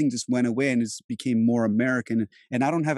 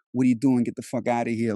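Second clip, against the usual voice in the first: New York accent. Shown as a demonstration. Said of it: "that New York accent".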